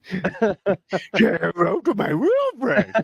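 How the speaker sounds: Tony Montana imitation; Cuban accent. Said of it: "when I do the Cuban accent".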